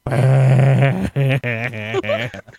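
loud, long mock wail; imitated drunken wail. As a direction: burst into an exaggerated bawl. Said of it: "make her wail with even more intensity".

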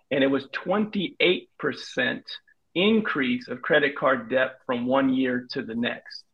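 measured mock-patient repeat, pausing between phrases. Shown as a demonstration. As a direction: lay out the figures slowly for a slow listener. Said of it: "I'm gonna say this slower for you".

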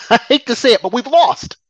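rueful laugh. Real, not acted. Laughs bitterly at defeat.

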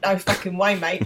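demonstrating a broad Aussie catchphrase; hammed-up Australian mimicry; Australian accent. Shown as a demonstration. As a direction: put on a caricature Australian accent. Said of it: "doing an Australian accent".

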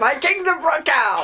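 chuckling through the line; laughing. Pretend. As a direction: say it while laughing, offhand. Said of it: "That wouldn't come out too well in Richard the Third".

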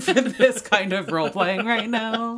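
worn-out, tired voice; tired voice, laughing through it. Real, not acted. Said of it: "my tired voice".

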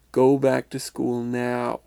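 slow, mildly stern order; firm it up a little, slowly; sterner voice. Retold or imitated. Spirit as his mother sends the boy back, mildly stern. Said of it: "in a sterner voice".

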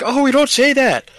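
high, slow, offended mock Canadian protest; mock Canadian viewer. Mocking Northern listeners who object to the joke, in a high huffy voice.

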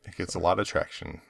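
talking with a whistling nose; a nose whistle on the breath. Real, not acted. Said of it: "Is my nose whistling?".

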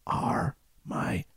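slow, breathy near-whisper; very slowly. Retold or imitated. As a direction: drag each word out weakly. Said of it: "and says very slowly".

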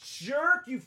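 loud, tearful and outraged; hurt crying anger. Real, not acted. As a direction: wail at him through tears. Actor hurt, crying and accusing.

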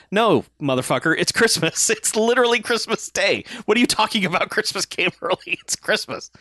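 high-pitched, laughing disbelief; mock exasperated correction. Retelling a gangster being corrected about Christmas, comically exasperated. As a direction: argue the obvious, pitch climbing as laughter creeps in. Acted argument over Christmas coming early.

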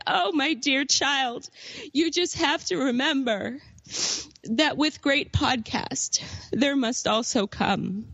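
impart final wisdom with halting, mock-dying breath; acted dying words. Dying uncle's last words, acted.

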